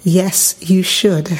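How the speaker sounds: "Yes, you should." with every word carefully pronounced; a hint of proper, polished pastor speech; well-spoken. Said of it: "she speaks very, very well".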